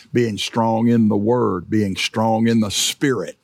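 slow and deliberate, hitting "in" each time; measured preaching cadence; slow emphatic triple. Real, not acted. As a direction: weigh every word like a promise.

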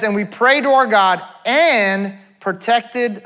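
slow verse reading with "and" stretched out; stress on and. Shown as a demonstration. Pastor pointing congregation to the underlined word, "and" stressed and held. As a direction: lean long on "and" before "protected". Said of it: "you can underline that word".

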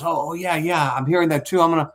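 high, quick flustered stewardess; nervous stewardess. Retold or imitated. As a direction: fake calm over rising panic. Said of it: "she kinda goes".

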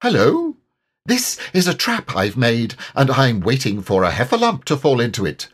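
brave little voice pretending calm; bold Piglet.

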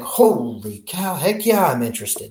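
replaying his own eager yes; retold excitement. Pilot retelling his thrilled answer to chief pilot, excited. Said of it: "I'm all excited".

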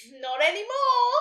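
loud, high, rising taunt; rude retort. A narrator's reading. Unicorn stealing Nelly's letter, rudely taunting. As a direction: throw it back loud and rudely. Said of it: "the rude unicorn said".

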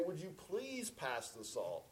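slow, pointed request, leaning on PLEASE; impatient please. Retold or imitated. Asking a second time at the family table, mock impatient. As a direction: ask with mock strained patience, drawing out please. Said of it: "of impatience".

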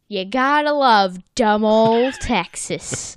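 loud, slow cartoon quote; lightly acted Patrick. Patrick declaring his love of Texas, lightly acted and loud. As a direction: draw it out loudly, lightly in character.

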